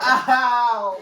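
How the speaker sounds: loud high yelp of pain. Real, not acted. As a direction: cry out, half laughing. Hit in eye by fork.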